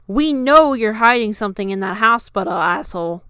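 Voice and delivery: loud accusing yell; angry shout. A narrator's reading. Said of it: "continued to shout".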